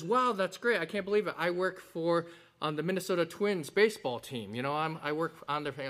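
excited new father. Acted. First father in joke reacts.

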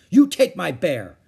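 bossy little hostess; ordered. A narrator's reading. Ramona ordering Susan to take her bear. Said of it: "she ordered".

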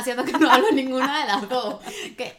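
words spilling out through real laughter; laughing while talking. Real, not acted. To her co-host, laughing at her own mixed-up languages.

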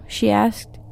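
ordinary delivery

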